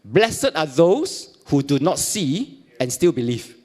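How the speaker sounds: slow, weighty reading of the verse; slow solemn quote. Retold or imitated. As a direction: let each word land slowly like scripture. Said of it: "showed the scars and said".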